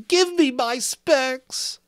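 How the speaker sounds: high, loud howl of panic. Acted. Piggy howling for his glasses, high desperate howl. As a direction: cry out for the lost glasses. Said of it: "howled Piggy".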